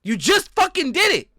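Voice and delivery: high, loud burst of disbelief; incredulous yell at a friend; exasperated shout. Real, not acted. Exasperated coach catches her doing it.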